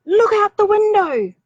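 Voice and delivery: put-on high, eager girl's voice; a small girl pointing something out; high excited child voice; little girl voice. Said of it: "Rose said".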